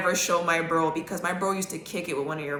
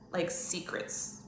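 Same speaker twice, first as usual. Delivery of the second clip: slow breathy hush on the word secrets; secretive whisper; 10 dB quieter, much slower than usual. Real, not acted. Telling viewers about the odd house, hushed whisper. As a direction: drop to a whisper as if sharing a secret. Hinting at dark family secrets.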